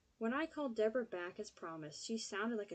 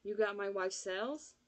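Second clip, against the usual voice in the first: alert, louder, eager question; suddenly bright and alert; 4 dB louder than usual. Acted. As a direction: perk up, suddenly interested. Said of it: "suddenly bright, alert".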